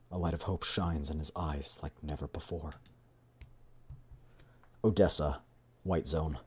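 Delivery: measured, dramatic game narrator; story narration. A narrator's reading. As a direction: read the scene as a storyteller.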